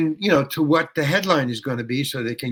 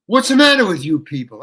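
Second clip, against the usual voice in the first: louder, exasperated rant at the audience; angry yelling; 2 semitones higher, 7 dB louder, faster than usual. Retold or imitated. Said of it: "And I start yelling at them".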